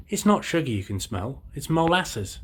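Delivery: emphatic daddy mole. Acted. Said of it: "Daddy mole says".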